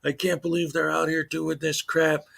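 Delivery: slightly put-on indignant complaint; mock outrage. Host mimics a filmer calling cops evil tyrants, mock outrage. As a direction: imitate someone overdramatizing a grievance. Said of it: "he makes it sound like".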